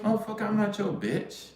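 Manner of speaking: high-pitched mock outrage; indignant retort. Telling off the guy who complained, indignant. Retold angry retort to friend.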